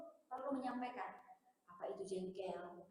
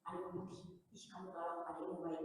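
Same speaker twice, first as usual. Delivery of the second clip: mock bullying taunt; 5 semitones lower, 6 dB quieter than usual. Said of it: "sering membuli dia".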